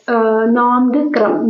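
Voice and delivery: നോങ്ക്രം drawn out slowly, each syllable given weight; slow drill. Shown as a demonstration. Teacher drilling a dance name for students to memorise, slow. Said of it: "നോങ്ക്രം എന്ന് ഒന്ന് നിങ്ങൾ ഓർമ്മിച്ച് വെക്കോ".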